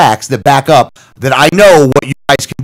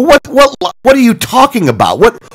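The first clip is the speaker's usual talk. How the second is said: incredulous; 6 semitones higher than usual. Retold or imitated. Accused of lying on the phone.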